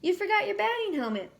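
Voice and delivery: high, loud taunting call; mocking yell. Player yelling to SpongeBob about his helmet, loud and jeering. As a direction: jeer it at the rookie. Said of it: "yelled one of the other players with a snort".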